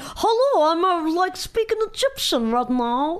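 terrible put-on Russian accent. Mocking how a woman spoke, retelling her words in a bad Russian accent. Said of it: "just like general Russian".

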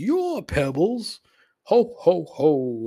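slow, swooping, stretched-out, big cartoonish voice. Retelling a Christmas commercial, quoting Fred: imitating Fred Flintstone. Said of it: "And Fred says".

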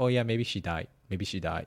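put-on very casual, calm, relaxed tone. Retelling what an old neighbor kept saying: imitating a very casual, calm tone. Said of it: "very casually, very calmly".

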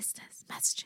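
whispered, very hushed, very quiet. Announcing the next segment, listeners' messages: whispering. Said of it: "why you whisper that every time".

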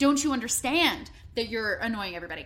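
ordinary talk

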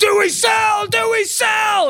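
slow, very high, drawn-out shouted scream. Retelling a man screaming in the speaker's face, retelling a scream. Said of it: "some other dude screaming at my face saying".

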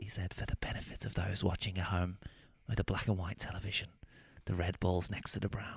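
whispered commentator voice, very quiet. Recalling one of a snooker commentator's famous lines, as a whispering Ted Lowe impression. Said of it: "he would have to talk like this. Whispering Ted Lowe".

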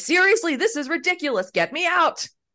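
mock, utterly fed-up exasperation at very high pitch. Describing a man in armor being marched the wrong way: acting out someone fed up. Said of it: "so fucking fed up".

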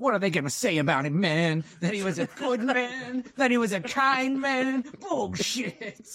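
slow, high, wild ranting. Quoting a favourite line from Apocalypse Now: Dennis Hopper impression. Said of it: "My Dennis Hopper go-to line".

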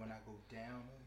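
low, soft seventies movie villain voice.

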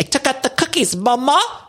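very high, exaggerated, thick English accent. Describing how Dorit's accent returned when her mom was there: Dorit's accent, back with a vengeance. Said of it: "came back with a vengeance".

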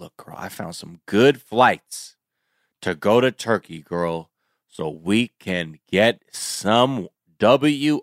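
put-on southern American accent. Retelling what a woman said in a spa parking lot, southern accent. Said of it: "Why am I doing a southern accent?".

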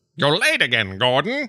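put-on crusty old man voice. Talking about a video game, the speaker imitates its scientists in a crusty old man voice. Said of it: "that same crusty old man voice".

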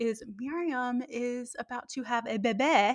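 soft, hushed, grand, affected theatrical diva voice. Sharing news with the audience about a guest, in the Moira Rose voice. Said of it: "I said that in the Moira Rose voice".

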